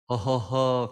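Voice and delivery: imitating a carefree ho-ho-ho; mock jolly, untroubled chuckle; happy pastor laugh.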